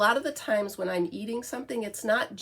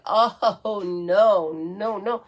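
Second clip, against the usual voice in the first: mock dog protest; 9 dB louder, much slower than usual. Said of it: "he's like".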